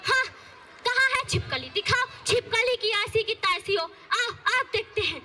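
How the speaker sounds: a hint of a stern village saas, nagging; lightly voiced scolding mother-in-law. Mother-in-law scolding daughter-in-law over her clothes, nagging.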